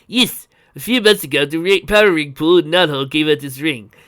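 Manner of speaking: loud, energetic inventor's explanation; exulting. A narrator's reading. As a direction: boast excitedly about the discovery. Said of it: "he exulted".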